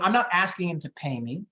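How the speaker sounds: ordinary delivery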